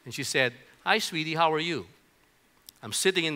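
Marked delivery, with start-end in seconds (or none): 0.8-1.9 high, sweet greeting as the wife; mock-sweet wife's voice; imitating wife. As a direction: chirp it like a loving wife. Voicing wife's text.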